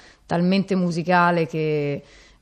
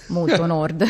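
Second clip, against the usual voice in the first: laughing; 3 dB louder than usual. Real, not acted. Joking she's from far north.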